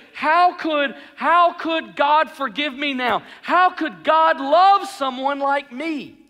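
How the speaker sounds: loud, slow, pleading despair; anguished self-doubt. Acted. Sinner asking how God could forgive, anguished. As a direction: stretch out each agonised question. Acted despairing question after failing.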